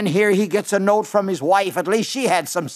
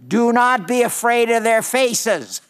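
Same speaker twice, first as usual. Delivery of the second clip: higher, ringing declaration of a verse; scripture proclamation; 4 semitones higher than usual. Retold or imitated. Preacher quoting God's charge to Jeremiah, raised proclamation. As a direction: proclaim it as a command from God. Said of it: "And this is what he said".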